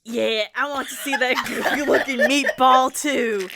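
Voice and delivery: line broken by laughter; laughing through the line. A narrator's reading. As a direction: crack up mid-line. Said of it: "Sorry, repeat that line for me".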